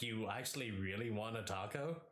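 mildly incredulous order-taker's question; double-check the order in mild disbelief; questioning, doubtful. Retold or imitated. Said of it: "he questioned it".

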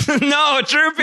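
high wail through laughter; hammed-up dismay; mock-distraught outcry. Player cries out for doomed character.

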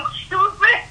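high puzzled question; baffled. Retold or imitated. Picking up a call from Badu, baffled. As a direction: voice shoots up, confused.

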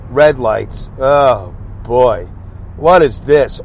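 normal talking voice

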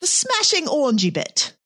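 showing how a Brit says it, lightly; British accent. Shown as a demonstration. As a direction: model the line in a British accent. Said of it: "you didn't read it in the right accent".

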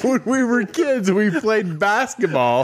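Ward. Retold or imitated. Friend explaining a childhood game, in mimicked slow voice. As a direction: mimic a storyteller launching into his tale slowly. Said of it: "And he's like".

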